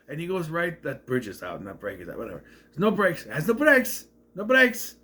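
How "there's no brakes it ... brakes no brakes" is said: mock alarm. Acting out driver's repeated alarm.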